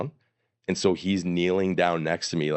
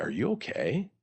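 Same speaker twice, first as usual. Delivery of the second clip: soft, higher-pitched check-in; gentle concern; 5 semitones higher, 5 dB quieter than usual. Retold or imitated. Stranger checking on a fallen runner, gentle concern. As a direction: imitate a concerned stranger, softly.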